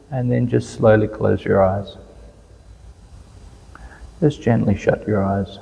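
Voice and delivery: calm, unhurried meditation guidance with long pauses; even, settled voice, leaving space between instructions; guided meditation. Real, not acted. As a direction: gently lead listeners into following the breath. Leads a guided breathing meditation.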